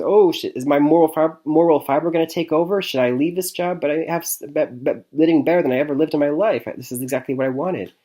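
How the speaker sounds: a touch of mock agonizing; acted inner dilemma. Movie hero wondering whether to leave his job, mildly agonized. Voices Cassius's moral dilemma.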